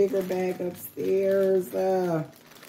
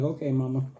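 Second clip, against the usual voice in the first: put-on deep kid voice; 4 semitones lower, faster than usual. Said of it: "little bass in his voice".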